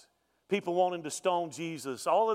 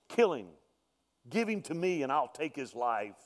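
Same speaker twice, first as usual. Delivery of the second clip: grim reaper voice. Acted. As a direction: drop it down, a sly menacing murmur. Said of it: "I can hear death whisper into Pilate's ear".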